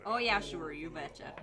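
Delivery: put-on echoed Midwestern accent; Fargo accent. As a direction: mimic the Fargo line, easing off at the end. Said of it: "that accent reminded me of some line from Fargo".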